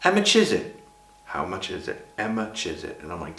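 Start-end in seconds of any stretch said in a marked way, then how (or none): 0.0-0.8 exaggerated Essex accent, pitched right up. Shown as a demonstration. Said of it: "various phrases you say in Essex". 2.2-3.0 Essex run-together "Emma Chisit"; Essex accent. Shown as a demonstration. Showing how the phrase becomes a name, Essex accent. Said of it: "various phrases you say in Essex".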